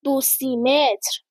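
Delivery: دو سیمتر split into two words, slow; slow misreading as دو سیمتر; mispronounced unit. A narrator's reading. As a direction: say دو apart, then drawn-out سیمتر, for دسیمتر. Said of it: "خیلی اشتباه گفت".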